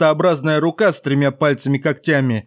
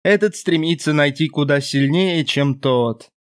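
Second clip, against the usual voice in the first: creaky demon voice. Acted. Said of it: "проскрипела тень".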